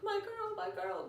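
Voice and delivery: very high, hammed-up fatherly tenderness; imitating an emotional dad; tender. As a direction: gush over a found daughter in a high voice. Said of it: "It's a very tender moment".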